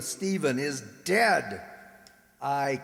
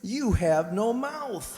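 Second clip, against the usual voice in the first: cruel taunt; 6 semitones higher, slower than usual. Acted. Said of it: "why should he say it so cruelly?".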